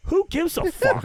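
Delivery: high, loud, mocking who-cares; scornful dismissal. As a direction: brush him off with loud disdain. Dismissing a fan about celebrity.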